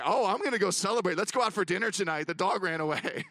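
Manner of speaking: imagined celebrating wife. Retold or imitated. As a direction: celebrate in mock glee, easing off at the end. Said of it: "would have been a great day for her".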